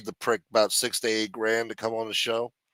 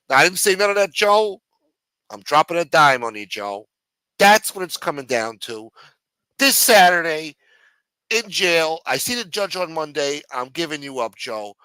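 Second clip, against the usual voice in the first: high, pleading whine at the boss; higher whining rat begging Joe; whiny jailed underling; 4 semitones higher, 5 dB louder than usual. Acted. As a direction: complain like a small-time crook who got pinched. Underling announces ratting.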